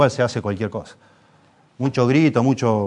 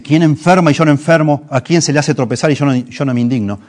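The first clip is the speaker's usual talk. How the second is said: indignant outcry; 4 semitones higher, 8 dB louder than usual. Retold or imitated.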